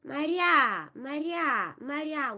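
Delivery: "Моря" as ma-RYA, reduced first vowel, stressed ending; repeated "моря", short first syllable, falling final A; unstressed first vowel. Shown as a demonstration. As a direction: drill "моря" with the weight on the last syllable. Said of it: "unstressed position becomes".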